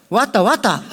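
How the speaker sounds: high, punchy dog bark; tough dog bark. Retold or imitated. Preacher imitating a tougher Jeolla dog, high bark. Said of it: "조금 센 개는".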